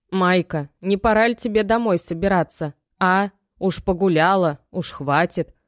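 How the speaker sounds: lightly voiced mother nudging her girl; mother's voice. Мать зовёт дочь домой. (голос матери, слегка выше и громче)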